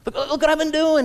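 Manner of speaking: a light whine of protest; whiny older brother. Acted. Preacher acting the older brother's protest. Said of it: "he said".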